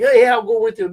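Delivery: mock relaxed buddy offer, fairly loud; casual cool. Buddy agreeing to tag along, casual cool. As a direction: imitate an easygoing yes at talking pitch. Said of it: "it wasn't this cool".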